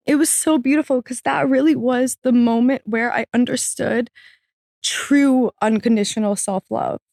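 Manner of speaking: moved, voice lifted a little high; earnest, emotional reflection; still emotional. Real, not acted. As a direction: speak through real emotion.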